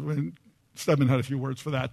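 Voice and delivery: ordinary talk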